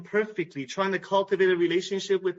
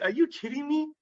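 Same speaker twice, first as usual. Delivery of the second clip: astonished wife; 10 semitones higher than usual. Retold or imitated. Wife stunned by husband's message.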